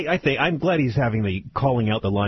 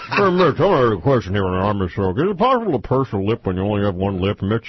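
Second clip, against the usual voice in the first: Imus voice; 4 dB louder than usual. Retold or imitated. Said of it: "the Imus Mitch McConnell voice-off".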